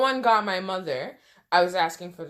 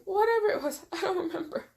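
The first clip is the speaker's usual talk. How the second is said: laughing; 10 semitones higher, faster than usual. Real, not acted. Laughing at her drugged memory.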